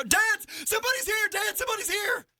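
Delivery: put-on high, loud excited kid yell; kids shouting. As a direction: call out like a kid spotting a visitor at the door. Kids calling dad to door.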